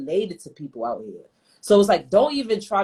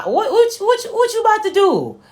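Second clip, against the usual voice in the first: high-pitched, louder pet talk to the cat; 12 semitones higher, 5 dB louder than usual. Real, not acted. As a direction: coo up high at the cat while teasing it. Cooing at the cat.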